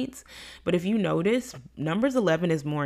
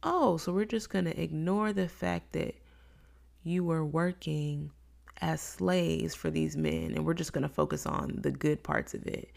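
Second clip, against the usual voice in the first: dry sarcastic God; 5 dB quieter than usual. Retold or imitated. God answering the nostalgic Israelites, softer and deadpan. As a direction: let the sarcasm settle quietly. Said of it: "And God's like".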